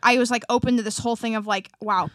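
eager, slightly over-loud talk; too loud. Real, not acted. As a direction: explain it a bit too loudly. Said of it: "am I talking way too loud".

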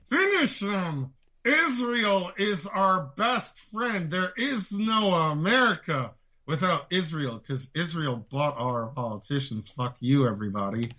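slow, deliberate mock politician voice; lightly voiced Nikki Haley, dragging the words out; a hint of a smug candidate, slow; Nikki impression. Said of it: "My Nikki impression is spot on".

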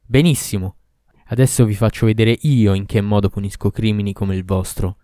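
loud, menacing demon; threatening Ifrit. Acted. Ifrit threatening both lovers, loud and menacing. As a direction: promise the punishment.

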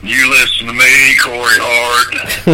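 slow, menacing wrestler promo; Undertaker impression. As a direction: drag out the name like a threat. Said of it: "really good Undertaker impression".

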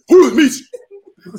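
high, loud confrontational yell; imitating a hostile stranger; loud aggressive demand. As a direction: shout it like you're picking a fight.

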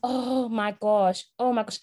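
slow, drawn-out dramatic lament; mock crying. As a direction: wail it like an overdramatic auntie. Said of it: "like, crying".

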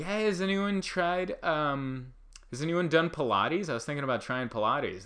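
mock tentative, casual question; feeling out the room. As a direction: test the water with an offhand ask. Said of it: "someone tries to feel out the room".

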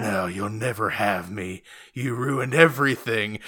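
slow, lightly brooding villain; mock villain line. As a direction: drag it out, mock menace. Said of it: "And then he's like".

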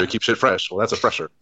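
Mitch Hedberg impression. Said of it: "Mitch Hedberg joke".

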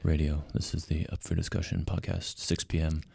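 low, measured public-radio announcer; CBC Radio host. Acted. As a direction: drop down into a radio host's intro. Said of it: "you can get down there".

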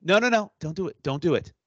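urgent no, no, no, pleading; begging her not to do it; urgent plea; pleading out loud. Retold or imitated. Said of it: "I literally said out loud".

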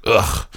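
short, quiet "ugh" of disgust; disgusted groan. Retold or imitated. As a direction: groan in mock revulsion. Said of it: "like, disgust".

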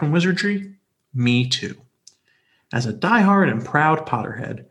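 smooth, even radio reading voice; calming radio voice. Acted. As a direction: read it like a soothing radio host. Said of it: "you do have your calming radio voice".

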